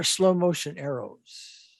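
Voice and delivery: drawn out slowly, as in slow motion. Shown as a demonstration. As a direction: stretch the words to picture slowed movement. Slowing the imagined arrows down.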